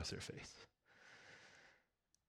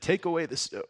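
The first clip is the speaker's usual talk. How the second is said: commanding Jesus; 7 semitones higher, 6 dB louder than usual. Acted. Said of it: "Jesus said".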